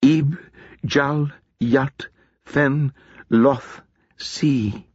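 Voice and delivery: a touch of ritual chanting, one word at a time; mild intoning; intoned spell words. Acted. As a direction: repeat the magic words carefully. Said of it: "Winter repeated each word".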